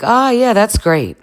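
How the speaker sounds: high, loud, drawn-out fake approval; mock stressed. Dara hearing the girls warned him, mock stressed. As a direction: overplay being fine with bad news. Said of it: "Dara looking pretty stressed out".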